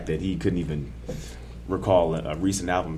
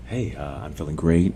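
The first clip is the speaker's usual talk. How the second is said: slightly lowered, put-on podcast host voice; 3 semitones lower than usual. Co-host answers how he's feeling, in a put-on host voice. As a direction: lay on a mock host delivery. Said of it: "You gonna talk like that all episode?".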